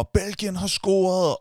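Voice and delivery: high, slow mock shout; retold shout. Fan in the crowd shouting the news, mock yell. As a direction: call it out to the crowd, half-acted. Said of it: "der er nogen, der råber".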